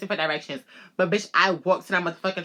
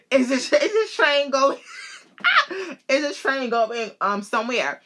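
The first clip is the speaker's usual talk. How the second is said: flustered self; 7 semitones higher than usual. Retold or imitated. Retelling asking the lady about the train, flustered and higher. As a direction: replay your own nervous question, tripping over it. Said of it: "I asked her".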